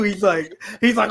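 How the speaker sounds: normal talking voice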